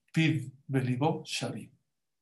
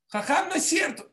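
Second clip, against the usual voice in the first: mock child voice; 13 semitones higher than usual. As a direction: chirp it like an eager pupil.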